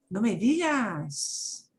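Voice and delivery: slow, drawn-out surprise; amazed. Shown as a demonstration. Teacher demoing amazed reaction, slow and drawn out. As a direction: savour the news, impressed. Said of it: "in a very different tone of voice".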